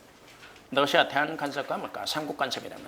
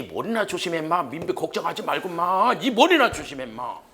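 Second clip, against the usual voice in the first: acted-out warning, building louder and higher; mock gruff warning; 3 semitones higher, 3 dB louder than usual. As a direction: warn them off, with a sudden louder repeat. Acted warning to mind one's hair.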